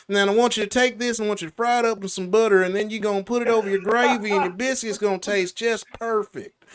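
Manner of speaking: fast, lightly voiced Southern recipe read; a hint of Doctor Phil giving a cooking tip; country Doctor Phil voice. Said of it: "it don't sound right".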